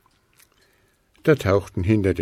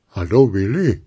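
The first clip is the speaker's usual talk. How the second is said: a lightly voiced snowman calling up from below; 5 dB louder than usual. A narrator's reading. Snowman calls up to Willi, friendly call. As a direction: call out a friendly hello, a bit louder. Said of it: "rief es unter ihm".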